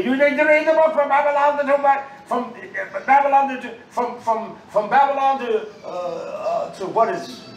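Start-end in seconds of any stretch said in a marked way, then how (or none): 0.0-5.7 raised, louder preaching call; loud insistent appeal; urgent exhortation. Real, not acted. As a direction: press everyone to read it. Urging congregation to read.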